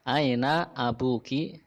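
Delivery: slow, calmer repeat with "aina" stretched. Shown as a demonstration. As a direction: repeat it slowly.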